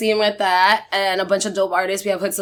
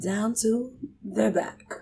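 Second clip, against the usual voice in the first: poetry reading; 3 dB quieter than usual. Pretend. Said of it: "Do it in the British accent".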